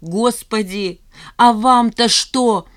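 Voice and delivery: high, loud, slow desperate shout; desperate cry. A narrator's reading. Zhanna crying out in despair at nosy friends. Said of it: "в отчаянии закричала Жанна".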